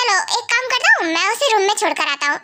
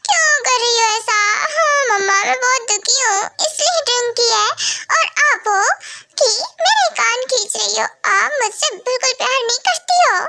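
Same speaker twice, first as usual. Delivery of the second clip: put-on drunken whine; 3 semitones higher than usual. Drunk daughter whining to mom.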